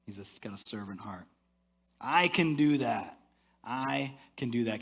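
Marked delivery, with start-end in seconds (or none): 2.0-4.8 modeling a resolve. Shown as a demonstration. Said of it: "Can you say that with me?".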